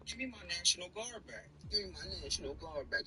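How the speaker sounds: lightly voiced imitation of Gavin, a rise on me; mock Gavin voice. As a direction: mimic him whining for his troops. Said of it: "I don't sound like that".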